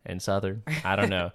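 put-on Southern accent. Teacher defaulting to a Southern accent, amateurishly put on. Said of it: "You have a horrible Southern".

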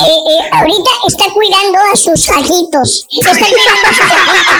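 punchline blurted out through laughter; laughing punchline. Real, not acted. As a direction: deliver it while laughing.

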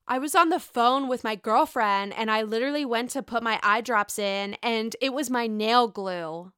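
lightly voiced Lisa, barely off my own; a hint of Lisa retelling her mishap; mild take on her chatty phone story; Lisa Barlow voice. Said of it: "I'm gonna try to do my best Lisa voice".

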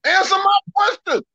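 belligerent shout, demanding an answer; combative. Real, not acted. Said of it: "why you sound belligerent".

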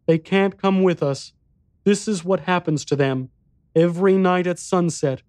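put-on high, small boy's voice; little boy voice.

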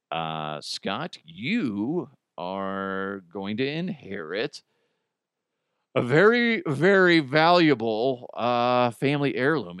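slow, grave lawyer voice with a dramatic pause; mock solemn will reader. Lawyer at a will reading tells Scott, slow and grave. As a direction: read the will like a pompous lawyer.

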